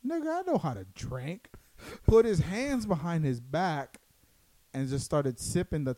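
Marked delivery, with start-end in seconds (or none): 0.1-1.5 higher-pitched cocky retort; retold drunken boast. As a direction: act out a boastful comeback. Retelling a drunk friend's boast.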